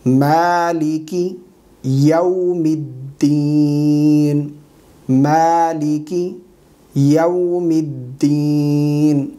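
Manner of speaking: very slow Quranic recitation with long-held vowels; correct recitation. Shown as a demonstration. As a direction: recite it syllable by syllable, drawing out every long vowel. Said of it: "صحیح تلفظات کے ساتھ پڑھ کر سکھائیں گے".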